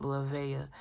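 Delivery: "Lavea" said luh-VAY-uh; name pronunciation. Shown as a demonstration. Reader reading out the baby girl name, showing its pronunciation. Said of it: "the baby girl name is pronounced".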